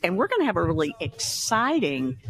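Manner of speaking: show-host intro. Real, not acted. Host introducing the day's guest to listeners, emphatic show opening. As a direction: welcome the audience, stretching the big words.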